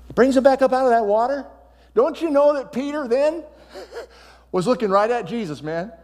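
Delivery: loud, high, excited preaching; rising shout. Real, not acted. Preacher shouting to the church about Peter. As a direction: lift it up to a shout.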